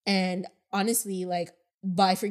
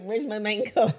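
mock indignant husband; 5 dB louder than usual. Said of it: "he came downstairs like".

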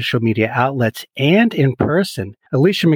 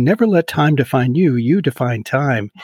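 DJ voice; 2 semitones higher than usual. Pretend. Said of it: "that was my faux D J voice there".

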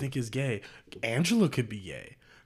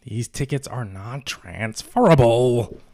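slow conductor quote; 9 dB louder, slower than usual. Retold or imitated. Quoting movie conductor.

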